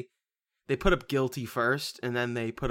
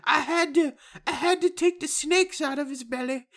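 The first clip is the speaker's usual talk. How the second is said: much higher dazed woman voice; mocking Emily; 14 semitones higher than usual. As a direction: say it high and matter-of-fact. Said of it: "And she's like".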